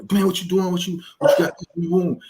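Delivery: hammed-up nosy voice asking what he does; nosy acquaintance. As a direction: mimic a prying stranger firing off questions, pitched well up. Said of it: "So they were".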